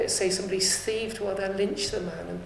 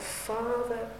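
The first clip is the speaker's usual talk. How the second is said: cries out; 7 dB quieter, slower than usual. Acted. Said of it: "and he cries out".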